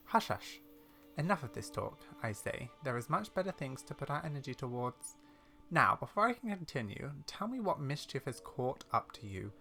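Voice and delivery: brisk hushing, then measured teasing; old lady character. Acted. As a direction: brush off questions like a knowing granny.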